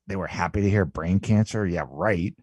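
mildly sarcastic, dropping away softly at the end; dismissive disbelief. Acted. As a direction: shrug it off, not buying it. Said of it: "I might shrug or roll my eyes at".

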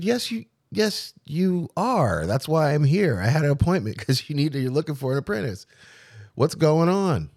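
high-pitched, insistent pushback; retold indignant protest. Insisting to the shop owner he needs an apprentice, indignant and high. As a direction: push back hard, voice way up.

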